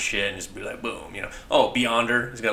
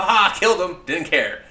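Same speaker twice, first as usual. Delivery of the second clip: mock callous villain; 9 semitones higher, 7 dB louder than usual. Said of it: "Just be like".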